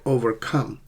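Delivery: "overcome" with the weight on COME; second-part stress. Shown as a demonstration. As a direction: go light on over, land on COME. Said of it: "it's the second syllable".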